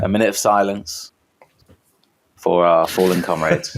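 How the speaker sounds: low, measured memorial announcement; gravely honour the fallen, tongue in cheek; hushed ceremony tone without whispering; mock solemn. Mock solemn memorial interrupted by alarm.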